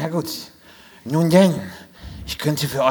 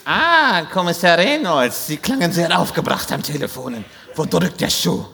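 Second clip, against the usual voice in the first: fortune teller; 2 semitones higher than usual. Acted. Wahrsagerin empfängt den Kommissar.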